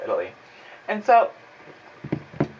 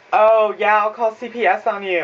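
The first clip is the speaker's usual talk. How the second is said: put-on bratty kid; 5 semitones higher, 5 dB louder than usual. Mocking bratty kids.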